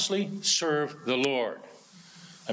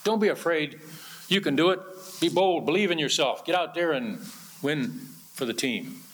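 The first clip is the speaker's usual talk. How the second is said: peppy coach. Retold or imitated. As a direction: cheer on a discouraged team, lightly mocking. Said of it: "Sounds more like a coach giving his".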